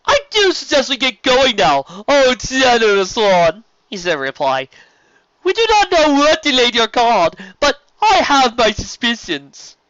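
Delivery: high, loud, flamboyant serpent voice; sea serpent Stephen. Acted. Sea serpent inviting the sister along, grand and high.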